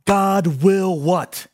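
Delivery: slow, drawn-out question hanging in the air; slowly, inviting the crowd to answer. Shown as a demonstration. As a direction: stretch "God will what?" out slowly, leaving space after "what?". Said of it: "But here's the other".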